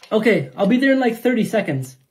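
loud call to a distant parent; yelling across the room. Acted. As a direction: shout back from another room. Kid yells back from room.

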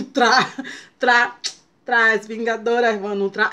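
stuck on tra, repeating; tongue-tied stumble over tratamento; stumbling stutter. Real, not acted. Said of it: "tem que levar na brincadeira".

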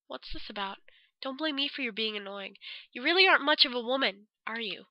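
quiet contempt; cold Yuta. Acted. Voicing Yuta coldly.

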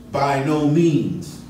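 slow, weighty by no means; definitive declaration. Retold or imitated. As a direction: land each word like a verdict. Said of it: "he definitively declares".

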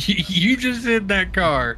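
high, stammered start of disbelief; incredulous accusation. Real, not acted. Confronting the friend who hit a car, incredulous. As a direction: pitch it up, astonished at the driver.

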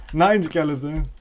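a hint of playful German; German accent. Player telling off a skeleton, mock German accent. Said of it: "I went German there".

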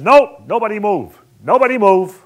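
loud urgent shout to the crew; shouted order. Retold or imitated. Assistant director shouting at the crew to stay put. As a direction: yell it to freeze the set.

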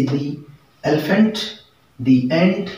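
दी with a long ee before elephant; the before vowels. Shown as a demonstration. Teacher modelling the article before vowel nouns, दी long. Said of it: "इसको बोला जाता है दी".

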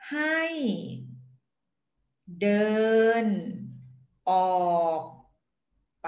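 "ให้ เดิน ออก ไป" broken apart, one syllable at a time; slow syllable demo. Shown as a demonstration. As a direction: lay out each syllable of "ให้เดินออกไป" on its own. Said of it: "to pronounce each word for you". (ให้ เดิน ออก ไป said slowly syllable by syllable)

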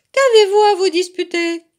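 high, loud questioning fox; renard qui interpelle. A narrator's reading. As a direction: call out over the squabble. Renard interpelle les oursons qui se disputent. (question lancée fort, voix aiguë)

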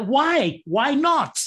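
high, pushed "Why not?" with a laugh; defiant challenge. Real, not acted. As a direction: throw the question back, amused. Challenging the "don't sell" idea.

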